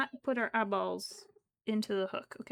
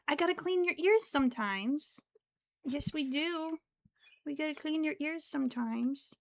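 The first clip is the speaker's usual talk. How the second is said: higher, coaxing talk to a cat; lilting, higher-pitched pet talk; 5 semitones higher than usual. Real, not acted. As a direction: coax a pet in a raised voice. Cooing to pet about ear cleaning.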